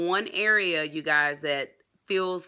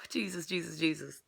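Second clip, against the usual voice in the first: much softer, awed repetition; overwhelmed murmur; 8 dB quieter than usual. Real, not acted. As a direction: let it out quietly in awe. Overwhelmed after celebration.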